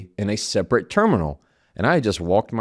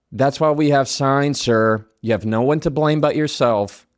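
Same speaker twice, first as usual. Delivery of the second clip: condescending; 3 semitones higher, 3 dB louder than usual. Retold or imitated. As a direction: replay the agent's put-down with relish. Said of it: "so condescending".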